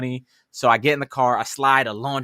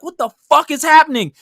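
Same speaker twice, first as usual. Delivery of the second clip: much higher, loud incredulous yell; shocked shout; 13 semitones higher, 10 dB louder than usual. Retold or imitated. Driver retelling cars cutting in front of him, shocked shout. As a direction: shout it in outraged disbelief, re-enacting.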